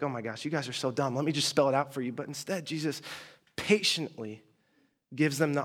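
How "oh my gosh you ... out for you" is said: frustrated. Retold or imitated. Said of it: "I'd be like".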